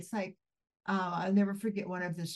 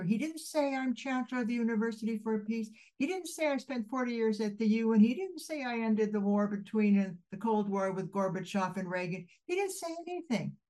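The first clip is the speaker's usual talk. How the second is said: rising emphatic He didn't say; 3 semitones higher than usual. Real, not acted. Listing what husband didn't say.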